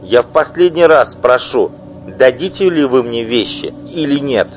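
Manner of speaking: loud, high, bitter tirade; furious wife. Acted. Wife denouncing her husband's mistress, furious loud outburst. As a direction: spit out the insults at her rival. Offended wife demands jewels.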